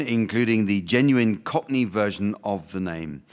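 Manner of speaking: usual speaking voice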